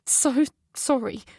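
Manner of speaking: slow, halting apology; choked with emotion. Acted. Mother apologising to her hurt son, voice choked. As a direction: force the words past tears. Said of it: "my voice choked with emotion".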